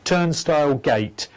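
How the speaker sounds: turnstile gate, slowed and spelled out clearly; slow careful repeat. Shown as a demonstration. Psychic repeating the name slowly for the caller, careful.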